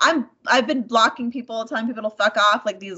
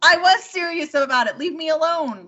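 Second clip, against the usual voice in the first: raised, insistent retort; firm insistence; 6 semitones higher than usual. Retold or imitated. Woman retells insisting to her ex, firmly. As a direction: stress was, fed up. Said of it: "And I'm like".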